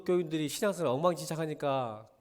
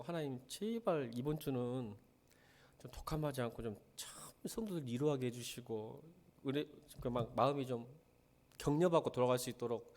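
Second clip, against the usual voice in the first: quoted prayer; 2 semitones lower, 6 dB quieter than usual. Retold or imitated. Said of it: "기도하고".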